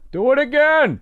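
high, muffled mock old man; sarcastic old man through the floor; grumpy old neighbor. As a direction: sneer it like the cranky guy downstairs. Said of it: "Like that".

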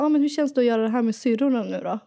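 Stockholm dialect, quoting a guy; Stockholm accent. Retold or imitated. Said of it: "Oj, vad jag fick Stockholmsdialekt".

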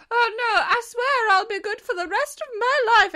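high, loud, hammed-up desperation; mock panicked vow. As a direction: swear it in exaggerated despair. Acts Dorian's panicked vow.

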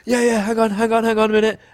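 high-pitched playful stalling; high mock stalling. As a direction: stall him in a high teasing voice. Best man stalling playfully.

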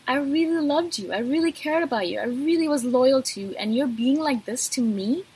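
retold outrage, emphatic but controlled; mildly indignant, retold reproach; hurt indignation. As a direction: voice an inner rebuke to someone who betrayed you. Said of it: "I'm thinking to myself".

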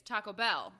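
Taco Bell with Bell carrying the weight; corrective stress. Shown as a demonstration. Correcting co-host's pronunciation, stress on Bell. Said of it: "Yeah, that's not right".

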